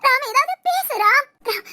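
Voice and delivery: tearful desperate calling; crying. Acted. Daughter calling Ram who went silent, crying. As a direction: call out for him through tears.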